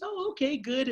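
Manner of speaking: a hint of a breezy bank teller; lightly voiced cheerful teller. Teller chatting lightly with him at the bank, chirpy.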